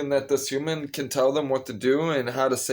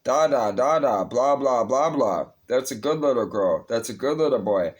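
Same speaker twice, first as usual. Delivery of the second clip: mocking baby talk. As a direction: talk down to them like toddlers. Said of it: "address them in baby talk, one syllable at a time".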